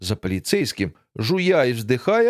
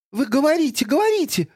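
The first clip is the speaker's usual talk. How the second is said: taunting; 12 semitones higher, faster than usual. Acted. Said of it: "подзадорила Тося".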